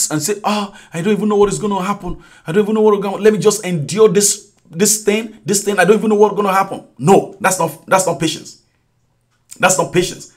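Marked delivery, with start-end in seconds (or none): 0.4-6.8 resigned monotone, hurried along; mock someone just passively putting up with it; passive resignation. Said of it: "passive, it's not passive, or it's not just going through it".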